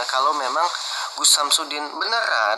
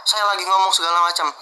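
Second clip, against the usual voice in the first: fast, higher imitation of an angry scolding; a mock indignant tirade, quick and raised; retold angry scolding; 5 semitones higher, faster than usual. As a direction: rattle it off fast and higher, mimicking the furious host. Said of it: "langsung dibilang".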